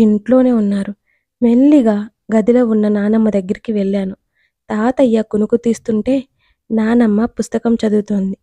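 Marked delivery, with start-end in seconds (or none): none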